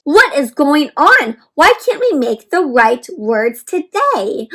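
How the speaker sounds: slow, puzzled little letter voice; a touch of bewildered letter; confused letters. Acted. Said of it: "all looked confused".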